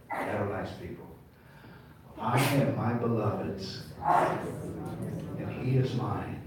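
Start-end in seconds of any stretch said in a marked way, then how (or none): 2.2-6.4 drawn-out, very slow verse; slow, savoured reading of the song line; slow recitation. Shown as a demonstration. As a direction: stretch each word of the verse. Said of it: "Say it with me".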